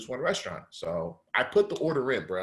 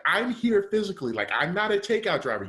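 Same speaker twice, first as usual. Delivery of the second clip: outraged rant; 5 semitones higher than usual. Retold or imitated. Customer ranting at restaurant staff refusing his order, high indignant disbelief. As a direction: lay into them, pitch up and incredulous. Retold rant at closed kitchen.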